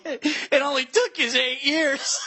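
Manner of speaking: mock praise, drawn out slowly; slow sarcastic jab at the DA; sarcastic last words. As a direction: twist the knife with fake praise. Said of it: "You would just start talking shit".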